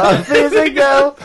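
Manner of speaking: sultry drawn out. Pretend. Mocking the physical line.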